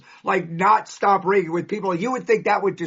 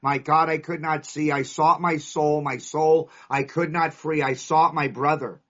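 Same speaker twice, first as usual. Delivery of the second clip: reciting a poem; 3 semitones lower than usual. Real, not acted. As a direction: read it like a prayer. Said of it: "There's a poem in Notre Dame".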